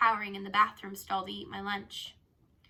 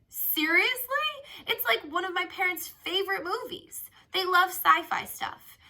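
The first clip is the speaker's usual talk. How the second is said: amazed; 10 semitones higher, 6 dB louder than usual. A narrator's reading. Zion shocked she doesn't know the Matrix, high amazed. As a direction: gape in disbelief at her. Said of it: "His mouth dropped open".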